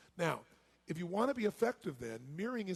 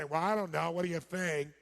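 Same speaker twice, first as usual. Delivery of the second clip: mismatched tone; 4 dB louder than usual. Shown as a demonstration. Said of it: "they're talking like this".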